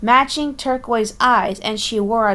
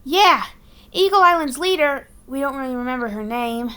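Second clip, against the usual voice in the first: high eager Boston voice; urgent warning in Boston accent; 6 semitones higher, 3 dB louder than usual. Acted. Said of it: "Boston accent".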